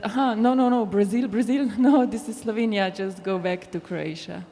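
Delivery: half-laughing mock police dismissal, lively then dropping off; joking police brush-off. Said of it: "where I sometimes joke".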